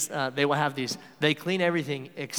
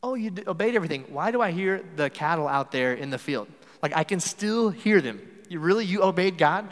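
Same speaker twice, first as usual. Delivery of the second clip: mock demanding; 3 semitones higher, 4 dB louder than usual. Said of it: "Samuel demanded".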